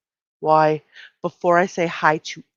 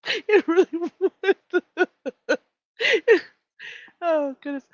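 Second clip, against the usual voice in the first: high squeaky laugh then slow giggly words; can't get the words out for laughing; still laughing; 12 semitones higher, much slower than usual. Real, not acted. Host to chat, giggling uncontrollably.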